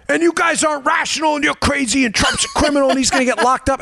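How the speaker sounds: high-pitched imitation of an angry heckler; mock maniac rant. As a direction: rattle off accusations like a crank. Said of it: "the guy's yelling like a maniac".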